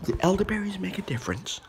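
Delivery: secretive whispered question. Pretend. Sudden whispered aside.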